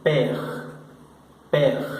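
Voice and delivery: père said short, open e; French père. Shown as a demonstration. Teacher models French père for the students. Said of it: "la P".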